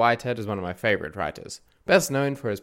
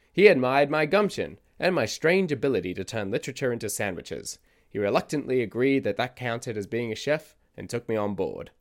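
eccentric storyteller character; 2 semitones higher than usual. Acted. Podcast host voices eccentric narrator.

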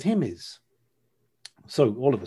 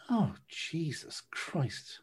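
dismayed; 5 semitones higher, 6 dB quieter, much slower than usual. Retold or imitated. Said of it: "And I went".

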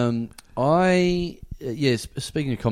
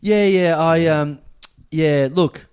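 mock woman's voice; 3 semitones higher, 5 dB louder than usual. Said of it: "she goes".

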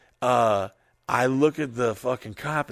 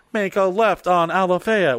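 higher-pitched mock GPS directions; 5 semitones higher, 4 dB louder than usual. GPS guiding a drunk friend home, mock navigation voice. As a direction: imitate a GPS calling out a turn. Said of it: "hear his G P S trying to tell him".

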